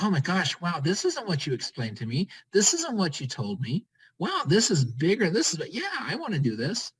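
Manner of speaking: mildly amazed prospect. Acted. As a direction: act out a wowed newcomer, lifting the ends. Acting out amazed prospects' reaction.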